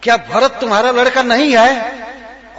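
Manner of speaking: high, loud scream of accusation; screaming queen. Acted. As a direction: scream it at the king. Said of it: "जोर जोर से screamed out, चिल्लाने लगी". (ऊँची चीख़ में कैकेयी)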